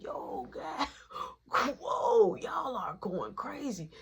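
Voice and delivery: laughing and choking on smoke; breathy cough-laugh through the words; a smoke-choked laugh. Retold or imitated. Hit by smoke in car.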